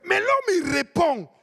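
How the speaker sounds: put-on loud, high, drawn-out African accent; hammed-up African accent, shouted plea. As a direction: cry it out slowly in a broad African accent. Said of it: "je prends mon accent africain".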